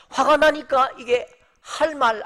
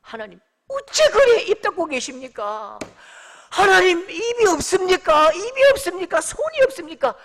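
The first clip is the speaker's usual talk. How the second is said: put-on loud, high-pitched Daegu-accented outcry; Daegu dialect protest; 7 semitones higher, 6 dB louder than usual. Habakkuk pours out complaints to God, indignant Daegu dialect. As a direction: rail at God in broad Daegu speech. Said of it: "대구 표준말로 하면요".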